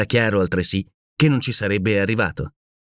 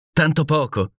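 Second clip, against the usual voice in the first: higher-pitched, doubting question; mild surprised exclamation; 6 semitones higher than usual. A narrator's reading. Nicole doubting Barbicane's explanation, mildly surprised exclamation. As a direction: exclaim it with a touch of disbelief. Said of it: "esclamò Nicole".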